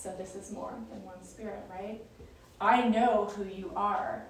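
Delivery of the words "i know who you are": slow, louder declaration; asserting authority. Retold or imitated. Spirit telling Jesus it knows him, asserting authority. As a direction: declare it slowly and forcefully. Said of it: "this spirit is trying to, to take authority".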